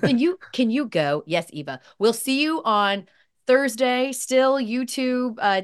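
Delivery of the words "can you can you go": put-on smug toddler. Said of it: "Eva telling you to wrap it up".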